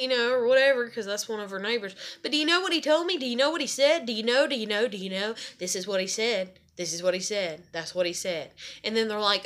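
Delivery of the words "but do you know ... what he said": lightly mock a gossip spreading news, tailing down; a hint of a gossiping grandmother; mimicked gossip.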